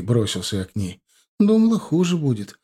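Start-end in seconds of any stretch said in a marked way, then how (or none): 1.4-2.6 higher-pitched, gentle smiling voice; smiling wife. A narrator's reading. New mother reassuring her husband, smiling. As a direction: answer with a smile in the voice. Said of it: "улыбнулась она".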